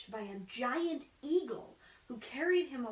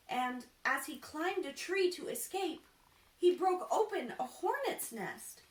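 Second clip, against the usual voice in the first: building higher and louder to a peak; rising excitement; 7 semitones higher, 5 dB louder than usual. A narrator's reading. Narrator racing to the fortune teller's peril, building higher and louder. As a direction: climb in pitch as the peril piles up.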